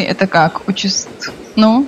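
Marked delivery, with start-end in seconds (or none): 0.7-1.1 trips on the word, cuts off; tongue tangles mid-word; tongue-tied. Real, not acted. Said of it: "язык заплетается на этом слове".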